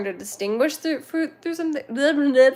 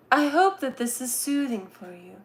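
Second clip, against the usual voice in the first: soothing voice; 2 semitones higher, 3 dB quieter than usual. Pretend. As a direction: talk as if calming a listener. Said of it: "If I talk like this".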